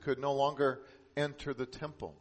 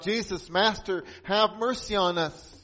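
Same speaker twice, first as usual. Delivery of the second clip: raised, louder pleading call; crying out for mercy; 6 semitones higher, 5 dB louder than usual. Acted. Ten lepers begging Jesus for mercy, crying out. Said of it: "They cried out".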